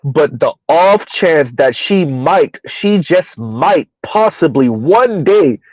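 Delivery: slow, wistful build-up; slow dreamy drawl. Real, not acted. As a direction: stretch it out like a daydream.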